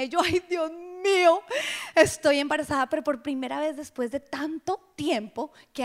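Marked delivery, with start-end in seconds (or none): 0.2-2.9 mock alarm at the news. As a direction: realize it with dread. Alarmed realization retold.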